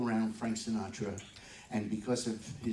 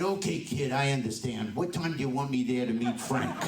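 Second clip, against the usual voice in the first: tough New York mom; 2 semitones higher, 4 dB louder than usual. Retold or imitated. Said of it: "like a tough New York cookie".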